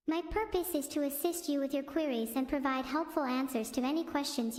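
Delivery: polite assistant read, barely off her own voice; a hint of a stiff AI assistant; ChatGPT impression. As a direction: recite it like a helpful chatbot. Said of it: "Chat G P T impression".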